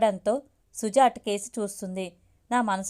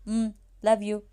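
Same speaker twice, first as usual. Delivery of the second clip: tender love you. Acted. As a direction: murmur "um, love you" gently to her. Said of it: "అన్నా". (మృదువుగా "love you")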